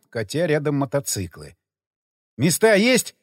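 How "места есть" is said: plain reading voice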